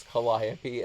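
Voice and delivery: Calliope as kuh-LIE-uh-pee; Calliope, four syllables with "lie" second. Shown as a demonstration. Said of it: "I've never heard anyone pronounce".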